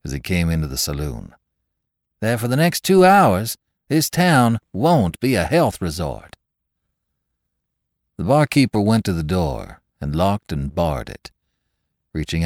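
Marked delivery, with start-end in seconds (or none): 2.2-6.4 ominous warning. Acted. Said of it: "he answered".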